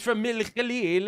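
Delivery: imitated Arabic accent on the place name. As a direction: say the name as an Arabic speaker would. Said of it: "he says it in Arabic accent".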